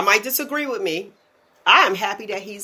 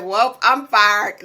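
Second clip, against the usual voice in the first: calm resignation; 3 dB louder, much slower than usual. Retold or imitated. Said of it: "And you said it so calmly".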